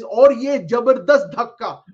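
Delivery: loud, slow, drawn-out commentator call; dramatic Hindi commentary. Retold or imitated. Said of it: "Hindi commentary was kind of a little dramatic".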